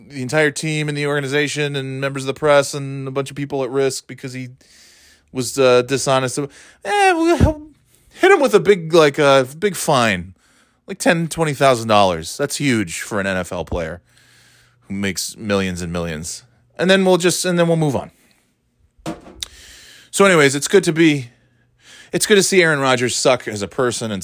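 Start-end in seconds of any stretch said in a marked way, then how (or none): 6.4-18.1 a hint of a bored NFL boss; mock nonchalance. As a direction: brush it off like it's nothing. Mocking NFL's token punishment.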